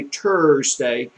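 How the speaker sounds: Thursday with T for TH, "Tursday"; French speaker's mispronunciation. Retold or imitated. Showing how French natives betray themselves, Thursday said as "Tursday". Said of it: "And if they say Thursday".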